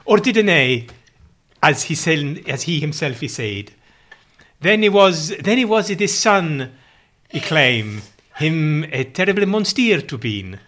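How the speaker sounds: loud, slow mock Chaucerian verse; renaissance fair olde speech. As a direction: declaim like a mock minstrel. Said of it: "Are you literally speaking in Old English?".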